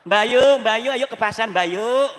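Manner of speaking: a boastful neighbour shouting for Bayu to go to market; calling out to Bayu. Retold or imitated. Neighbour showing off calls Bayu to the market, loud and high.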